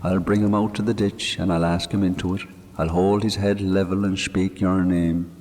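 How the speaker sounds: a grieving Irish countryman talking to his dead friend; man murmuring to a grave; Mick's voice. Acted. Mick speaking at the graveside.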